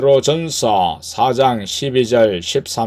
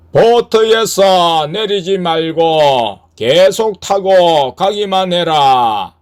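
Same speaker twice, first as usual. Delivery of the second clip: slow, raised commanding voice; Jesus; 6 semitones higher, 5 dB louder, slower than usual. Acted. Voice of the Lord to the rower in darkness, slow higher command. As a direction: call out a firm, drawn-out command. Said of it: "예수님의 음성이 들렸는데".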